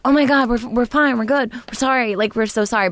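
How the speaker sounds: put-on gushing sorry like scared little kids; mock scared kids. Kids apologizing to dad about the belt, mock scared. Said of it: "We were like".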